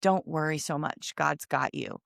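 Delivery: calm her worry softly; soft reassurance. Retold or imitated. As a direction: stranger soothing her in the lot. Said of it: "and he said".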